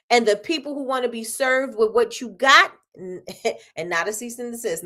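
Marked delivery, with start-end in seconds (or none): 2.9-4.8 soft laughing aside, slow and lower; quiet chuckling aside; laughing joke. Real, not acted. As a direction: toss off a joke while chuckling. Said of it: "No, I'm just joking".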